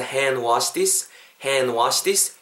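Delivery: "hand wash this" as slow, linked "haen-washi-this"; silent d model. Shown as a demonstration. Teacher models the phrase, "hand wash this" slowly, without the d. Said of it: "이렇게 발음하시면 좋을 것 같아요".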